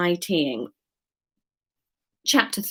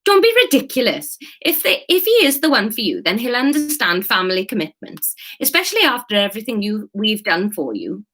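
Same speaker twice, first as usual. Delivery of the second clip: higher-pitched scolding character voice; exasperated texting relative; 3 semitones higher than usual. Acted. Reply to a text about family commitments, exasperated. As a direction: start high and indignant, then settle.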